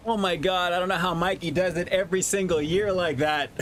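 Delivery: muffled through a rubber mask; talking from inside a mask. Real, not acted. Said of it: "it gets so hot in this mask".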